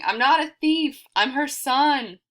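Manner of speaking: high, loud protesting cry; screaming. A narrator's reading. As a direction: shout your innocence to the crowd. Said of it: "all while screaming".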